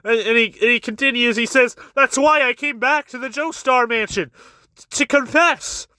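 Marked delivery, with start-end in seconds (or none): 1.9-5.9 higher-pitched mock repentance; imitating insincere, emotional remorse; crocodile-tear confession. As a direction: act out a put-on tearful confession. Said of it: "he's crying those crocodile tears".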